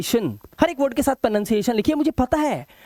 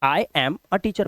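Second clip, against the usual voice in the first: slow demo; 2 semitones lower, much slower than usual. Shown as a demonstration. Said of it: "ये मैं अभी आपको बताऊंगा".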